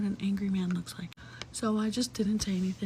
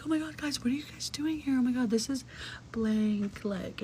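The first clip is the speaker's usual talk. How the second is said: fake surprise; 3 semitones higher than usual. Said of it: "I'm like".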